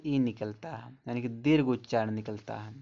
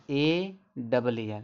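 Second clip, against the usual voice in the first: slow spelling out; 2 semitones lower, much slower than usual. Shown as a demonstration. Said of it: "ए का जो उच्चारण बड़ा आ निकलता है".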